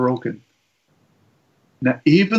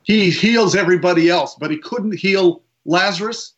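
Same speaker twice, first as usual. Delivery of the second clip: louder, rising in disbelief; incredulous; 5 semitones higher, 3 dB louder than usual. Retold or imitated. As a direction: scoff at the unfairness. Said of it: "Others were incredulous".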